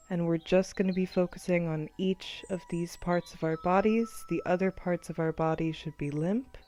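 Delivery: measured body-scan guidance, long pauses; guided meditation. Acted. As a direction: count them through tensing and releasing. Continues guided relaxation.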